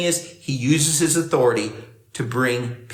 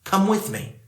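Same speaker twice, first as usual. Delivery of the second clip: gentle invitation; 5 semitones lower, 4 dB quieter than usual. Acted. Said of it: "but he's like".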